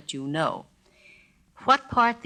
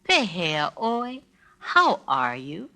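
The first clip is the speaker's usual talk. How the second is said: slow, caring Pehea oi; concerned; slower than usual. Shown as a demonstration. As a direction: ask as if you truly care, slowly. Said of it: "If you're really concerned".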